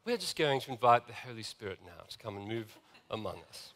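gentle, lightly imitated posh British voice, low and soft; Sandy's posh British accent. Preacher imitates minister inviting the Holy Spirit, gentle posh British accent. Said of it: "in his very posh British accent".

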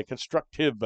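constructive broken into deliberate syllables; stress on constructive. Shown as a demonstration. Podcast host repeating his condition to listeners, stress on constructive. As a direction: spell out constructive by ear, syllable by syllable. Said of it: "I emphasize the word constructive".

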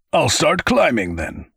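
high, cheerful character voice. A narrator's reading. Raymond off up the steps, cheerful. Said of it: "he said cheerfully".

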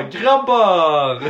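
loud laughing shout to break it up; laughing call. Retold or imitated. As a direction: call the guys off through a laugh. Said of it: "får jag komma då och bara". (skrattande utrop)

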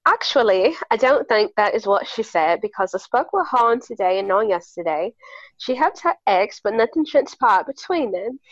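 reading a French woman's email in a hammed-up British accent. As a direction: read it in a mock posh British accent. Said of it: "I'm gonna read this in my sick British accent".

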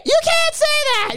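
high, slow shocked daughter; scandalized daughter. Retold or imitated. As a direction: drag it out like a disapproving daughter. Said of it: "his segment in his comedy where he's like".

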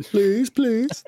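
high laughing please please; giggling, pleading for another one. Real, not acted. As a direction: beg through a laugh.

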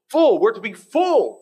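high, loud emphatic burst on Full; preacher's loud emphasis; emphatic shout. Acted. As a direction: punch the word home.

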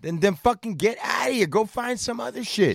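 high, shouted rant at the cops; fed-up shouting rant. Real, not acted. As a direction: yell it, fed up with them. Ranting at cops.

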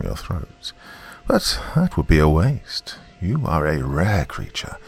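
put-on an old river god, distant as an echo; menacing giant snake, a hint of echo; ancient serpent voice. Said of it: "that sounded low and ancient".

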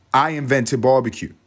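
loud, high bragging claim; proud mock boast; boastful. Real, not acted. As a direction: brag shamelessly.

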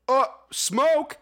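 high-pitched mock puzzled question; Dave Franco. Co-host mocking the smoke line, puzzled. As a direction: imitate a clueless movie line. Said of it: "Dave Franco goes".

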